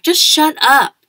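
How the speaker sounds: high, loud shut up; angry snap. Acted. Jack tells Julian to shut up, loud and high. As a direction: bark it at him hard.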